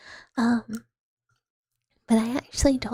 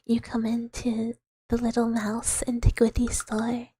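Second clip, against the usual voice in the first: lightly put-on, wobbly British accent; attempted British accent. Shown as a demonstration. Shopkeeper mouse offering cursed wares, attempted British accent. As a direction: have a go at a British accent and miss. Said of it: "I don't know what accent that was".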